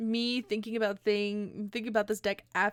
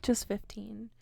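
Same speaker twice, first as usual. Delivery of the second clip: dramatic whisper; slower than usual. Acted. Dramatic news about the cuts.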